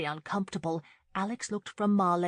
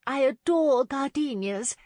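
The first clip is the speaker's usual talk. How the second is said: high, loud burst of enthusiasm; effusive matron butting in; sudden interjection; 9 semitones higher, 8 dB louder than usual. A narrator's reading. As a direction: gush suddenly, pitched way up. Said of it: "Missus Clark suddenly interjected".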